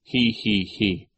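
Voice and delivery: put-on tittering hee-hee-hee; spelled-out mock giggle; laugh. A narrator's reading. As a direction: snicker in three separate syllables. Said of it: "and then laughed again".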